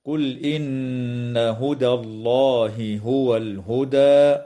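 slow, drawn-out tajweed chant; Quranic recitation. Shown as a demonstration. Teacher recites the verse for students in slow tajweed chant. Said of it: "قوله تعالى".

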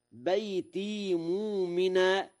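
high recitation, بيتي as baytee; plain long ee ending on بيتي; silent ya. Shown as a demonstration. Teacher gives an example, بيتي with unvowelled ya. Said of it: "بإسكان الياء".

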